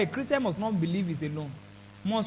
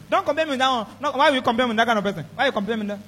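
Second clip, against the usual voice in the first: offended protest; 4 semitones higher, 5 dB louder, faster than usual. Retold or imitated. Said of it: "it's common to many people".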